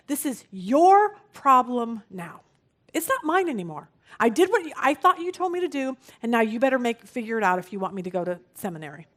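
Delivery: emphatic, mildly exasperated retelling; retold yelling. Frustrated student giving God an ultimatum, mild mock yell. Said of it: "he literally yells at God".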